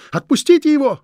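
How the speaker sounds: high, piercing scream; shriek. Acted. Louise shrieking at Krieg to let her husband go, high scream. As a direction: scream it in panic. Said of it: "взвизгнула она".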